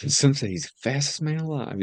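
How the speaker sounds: put-on high old-time announcer voice, lightly done; baseball announcer. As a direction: echo it like a radio announcer. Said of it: "talks like a baseball announcer".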